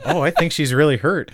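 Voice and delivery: said through laughter; laughing while talking. Real, not acted. Laughing at funny video.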